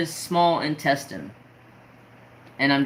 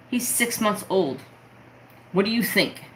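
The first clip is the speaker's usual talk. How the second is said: much higher, incredulous retort; indignant disbelief; 7 semitones higher than usual. Retold or imitated. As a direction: throw the question back at dad in outrage. Outraged reply to dad's question.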